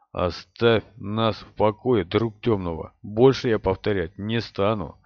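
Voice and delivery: slow, low cold warning; cold threat. Acted. Rand threatens darkfriend coldly.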